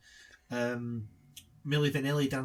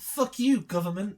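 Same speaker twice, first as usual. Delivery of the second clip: shout; 4 semitones higher, 4 dB louder than usual. Acted. Mocking the film's character.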